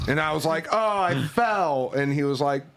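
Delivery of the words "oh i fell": higher, slow fake-innocent excuse; mock innocent. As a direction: play dumb about the dent. Pretending innocence after denting car.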